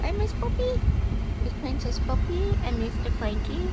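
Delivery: high, loud cheerful announcing; excited pet talk. Real, not acted. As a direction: hype up the dogs.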